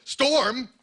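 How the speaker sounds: hammed-up title announcement, slow; mock epic news title; dramatic announcer. Dramatic CNN title read.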